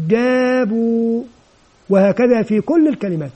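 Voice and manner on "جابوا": جابوا drawn out slowly syllable by syllable; slow blending demo. Shown as a demonstration. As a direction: stretch جابوا slowly like a teacher. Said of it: "ألف صفر مستدير لا تنطق". (نطق جابوا ببطء ومد)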